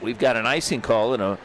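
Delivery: brisk hockey commentator calling the action; play-by-play. Acted. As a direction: call the game live, rink announcer energy.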